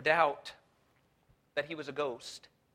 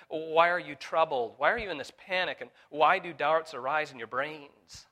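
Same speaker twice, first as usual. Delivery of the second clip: Jesus pleading loudly; 7 dB louder than usual. Acted. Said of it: "And he said to them".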